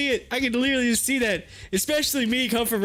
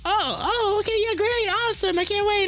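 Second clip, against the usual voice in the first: much higher, thrilled squeal; squealing caller; 11 semitones higher than usual. Retold or imitated. Caller thrilled the host will come over, squealing. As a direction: squeal with delight. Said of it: "she's like".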